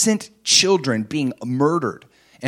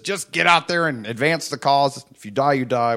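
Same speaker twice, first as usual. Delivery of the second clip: cold dictator. Pretend. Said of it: "psychotic dictator".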